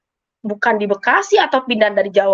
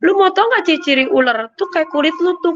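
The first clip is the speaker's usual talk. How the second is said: higher-pitched mock jeer; imitated taunt; 6 semitones higher than usual. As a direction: re-enact being taunted. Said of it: "saya dikatain lagi". (menirukan orang mengejek)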